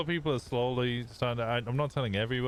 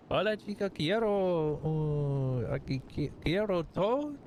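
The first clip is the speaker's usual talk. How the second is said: high-pitched put-on Hispanic accent; 8 semitones higher than usual. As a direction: disguise your voice with a thick Hispanic accent, pitched way up. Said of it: "people with Hispanic accents are dangerous".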